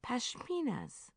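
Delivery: drawn-out, high tipsy slur; slurred. A narrator's reading. Narrator reading Bridget slurring over her wine, slow and slurred. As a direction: slur it slowly like you're tipsy. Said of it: "I slurred".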